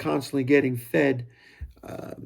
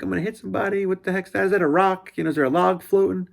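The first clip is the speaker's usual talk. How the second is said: retold panic; 4 semitones higher, faster than usual. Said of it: "Freaking out".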